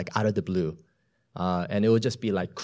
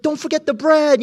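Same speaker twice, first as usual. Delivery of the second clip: mock panic; 7 dB louder than usual. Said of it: "it's just like".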